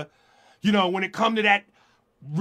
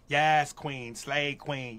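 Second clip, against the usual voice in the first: mocking praise; 7 semitones lower, 7 dB quieter, much slower than usual. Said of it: "the hypocrisy".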